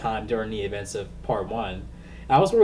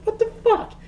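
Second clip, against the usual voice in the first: laughing. Real, not acted. Laughing disbelief at Ralph.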